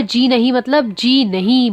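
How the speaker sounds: जी नहीं said slowly, firmly; stress on जी नहीं. Shown as a demonstration. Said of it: "हमने क्या जोर दिया".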